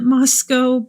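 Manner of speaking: Moscow said MOSS-koh; local pronunciation. Shown as a demonstration. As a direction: rhyme the end of Moscow with "go". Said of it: "feels better to pronounce it".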